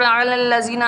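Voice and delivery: "अलल्लाज़ीना" with a throaty ayn and separate first syllable; correct recitation. Shown as a demonstration. Teacher models the word, "अलल्लाज़ीना" with every syllable sounded. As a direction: recite "अलल्लाज़ीना" as a-lal-la-zee-na. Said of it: "अल्ला नहीं पढ़ना".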